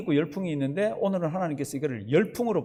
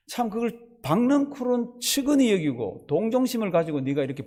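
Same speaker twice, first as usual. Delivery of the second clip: stern God scolding; 2 semitones higher than usual. Acted. God scolding Jonah, voiced.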